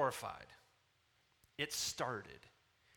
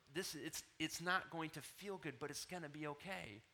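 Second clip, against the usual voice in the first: soft, gentle reassurance; compassionate tone; 5 dB quieter than usual. Retold or imitated. Father explaining stitches to his toddler, compassionately. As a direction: break it to a small child gently, trailing softer. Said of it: "into a compassionate tone".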